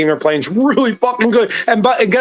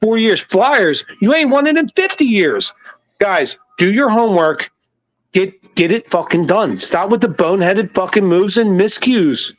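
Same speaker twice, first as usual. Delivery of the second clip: pitched-up, exasperated sports rant at the front office; heated rant; 2 semitones higher than usual. Real, not acted. Fan ranting at the team's front office, heated and exasperated. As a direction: vent at the Sixers like a fed-up fan. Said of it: "Sorry, that was my rant".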